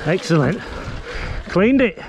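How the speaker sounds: breathing hard between words; puffing after the climb. Real, not acted. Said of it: "Try not to breathe as hard".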